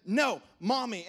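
put-on loud, slow toddler whine; mock a two-year-old pushing dad away; toddler refusal. Toddler son refusing his dad, loud and slow.

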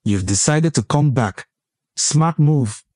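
smug villain greeting; a knowing, teasing threat; mock-sinister cold open; menacing intro voice.

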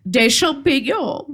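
put-on slow British-accented troll; puzzled echo in mock British-accented French. Troll hears of companions turned mushrooms, slow British accent. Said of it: "charmant accent britannique".

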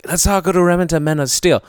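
imitating a drunk woman. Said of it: "She was just like".

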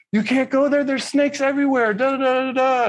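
high mocking voice of a nagging father; mocking dad lecture. Father warning his son about snakes, high mocking nag. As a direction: parrot dad's warning, way up high and singsong. Dad's nagging mocked in story.

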